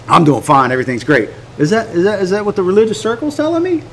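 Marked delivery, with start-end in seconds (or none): 0.1-1.3 low, subdued 'doing fine'; dismissive reassurance. Acted. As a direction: brush off the question, dropping low. Acted brush-off answer to greeting.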